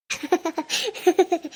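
frightened crying sobs; acted sobbing. Frightened shopper being told to calm down, sobbing. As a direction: sob without words. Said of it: "ನೋಡಿ, ಅಳ್ಬೇಡಿ".

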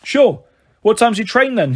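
a hint of a cheeky cabbie teasing; jokey cabbie. Taxi driver answering Mum.

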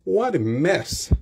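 drawn-out What a mess, dismayed; surprised exclamation. Shown as a demonstration. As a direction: react to a messy room. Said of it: "ou kapab di". (estonnen, "What a mess")

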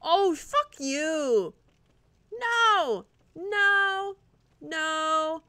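high yelled protests; panicked yells. Real, not acted. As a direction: yell no at the screen in panic. Falling to death in game.

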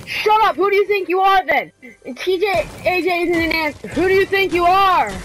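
exasperated telling-off with falling endings; mad scolding. Real, not acted. Telling a noisy teammate to shut up, mad and exasperated. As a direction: scold them, drawing out the last words. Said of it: "Gosh, I'm mad".

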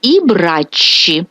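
І браччі said slowly, final і clear; careful teacher demo of the plural; very slow, clear word; slow Italian model. Shown as a demonstration. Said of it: "замінюємо на «і»".

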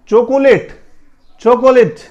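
چاکلیٹ in three syllables, "cho-ko-late"; high-pitched چاکلیٹ with an extra o in the middle; wrong pronunciation demonstrated. Shown as a demonstration. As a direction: say چاکلیٹ as "chokolate". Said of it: "نہیں".

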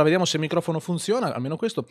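ordinary talk, nothing marked

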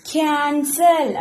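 ക്യാൻസൽ drawn out slowly; slow demo word. Shown as a demonstration. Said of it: "എന്താ കൊടുത്തത്". (ക്യാൻസൽ പതുക്കെ നീട്ടി വായിക്കുക)

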